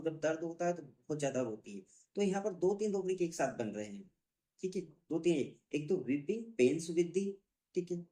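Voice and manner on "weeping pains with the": drawn out word by word; slow rubric dictation. Shown as a demonstration. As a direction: read it out for students to copy. Teacher dictating a rubric name.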